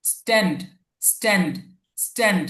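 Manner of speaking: স্ট্যান্ড with ট, no puff of breath; unaspirated T. Shown as a demonstration. Teacher models the correction for students, স্ট্যান্ড with ট sound. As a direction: say স্ট্যান্ড with a plain retroflex T. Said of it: "এস আর ট একসাথে".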